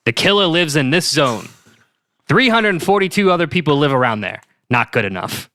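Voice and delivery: put-on brooding detective, Boston accent; clipped theorizing in a Boston accent. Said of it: "my killer Boston accent".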